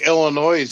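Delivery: Illinois with its final S sounded as a Z; silent letter sounded. Shown as a demonstration. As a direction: joke by voicing the silent S in Illinois. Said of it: "just like I say knife".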